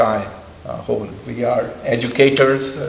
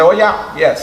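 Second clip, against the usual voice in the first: high, loud eager yes; eager high reply; quoting the reply; 5 semitones higher, 4 dB louder than usual. Retold or imitated. Professor answering His Holiness, eager and high. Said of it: "And he said".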